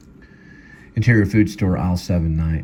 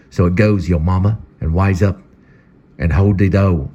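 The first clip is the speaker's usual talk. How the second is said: put-on louder, cocky lecture to a kid; swaggering elder; 5 dB louder than usual. Guitar Man talking down to the boy, cocky and loud. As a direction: lay down the law with swagger.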